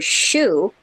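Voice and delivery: chou said exactly like English "shoe". Shown as a demonstration. Teaching listeners French, chou pronounced like shoe. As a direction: say chou as "shoo", one syllable. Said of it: "is pronounced the same as English".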